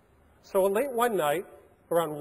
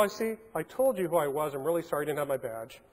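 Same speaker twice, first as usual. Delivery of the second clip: calm; 5 dB quieter than usual. Retold or imitated. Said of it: "So I calmly go".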